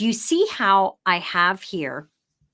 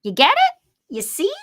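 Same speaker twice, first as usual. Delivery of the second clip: excited; 10 semitones higher, 6 dB louder than usual. Real, not acted. Playful check with viewers.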